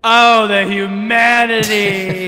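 slow, hammed-up tragic cry; mock tragic lament. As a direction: overplay the grief, laughing. Mock grief over own death.

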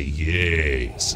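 YES said low and even. Retold or imitated. Quoting the Emperor's first reply, a low YES. First of escalating exchanged yeses.

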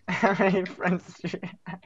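real giggles running into the question; retry the question, still cracking up; laughter squeezing the words; laughing so hard. Real, not acted. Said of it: "I'm laughing so hard".

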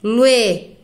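slow, separated syllables; drawn-out beats with linked vowels merged; syllable-by-syllable scansion. Shown as a demonstration. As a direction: sound out each poetic syllable. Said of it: "Aqui eu junto".

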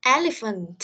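Elephant pronounced with EL stressed; word-stress model. Shown as a demonstration. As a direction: stress the first syllable of Elephant, then fall. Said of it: "nhìn vào phiên âm là có thể đọc đúng". (đọc mẫu Elephant, nhấn âm đầu)

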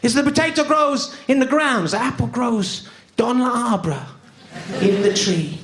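put-on French-accented explanation sliding into French; mock French accent. The French explaining where apples grow, in a French accent. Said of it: "And the French go".

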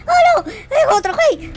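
high, loud alarm; alarmed cry. Real, not acted. Player spotting another zombie, yelping high and loud. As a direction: yelp at the new zombie.

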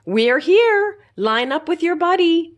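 high, loud announcing call; teacher calling out. A narrator's reading. Teacher calling the children off the bus, loud and high. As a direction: call the class to line up. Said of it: "Miss Maxwell said".

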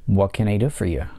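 what can I do for you with do stressed; stress on do, falling. Shown as a demonstration. Teacher models a wh-question falling on do. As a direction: hit do and let the tune fall. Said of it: "нисходящая интонация".

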